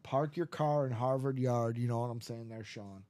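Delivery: "Park your car in Harvard Yard" in Boston style; Boston accent. Shown as a demonstration. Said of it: "my favorite line to say in a Boston accent".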